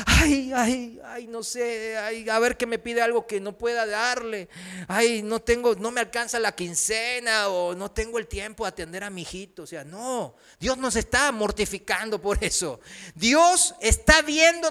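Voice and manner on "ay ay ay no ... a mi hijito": mock fretting voice, sighing ays; a hammed-up worried God fretting over what he'll be asked for; anxious nail-biting God. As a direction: fret like someone who can't afford the request. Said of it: "Dios nos está comiendo las uñas".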